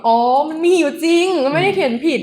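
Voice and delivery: high "oh!" of sudden understanding; the penny drops, relieved; realising relief. Retold or imitated. Retells own realisation. (อ๋อ เข้าใจแล้ว โล่งใจ)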